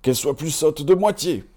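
high, loud dwarf casting a curse; dwarf cursing the girl, high and loud. A narrator's reading. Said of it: "dit un quatrième".

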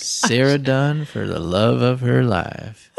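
slow, smooth late-night dedication; lightly voiced soothing radio host; Delilah radio voice. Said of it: "you sound like Delilah".

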